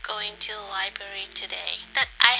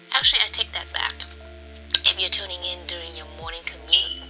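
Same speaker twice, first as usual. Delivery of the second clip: sudden louder self-correction; louder aside; 2 semitones lower, 6 dB louder than usual. Real, not acted. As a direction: break the calm, louder.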